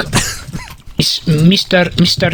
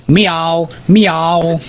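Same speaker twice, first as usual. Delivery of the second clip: spoken mock meow at usual pitch; playful cat meow; 2 semitones lower than usual. Man introducing his pet cat, playful cat meows. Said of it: "it's my pet cat".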